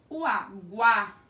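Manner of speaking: guá slowed with the A held strong; slow teacher demo of the strong A; drawn-out vowel demo. Shown as a demonstration. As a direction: stretch guá to show the A. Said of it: "a gente ouve bastante".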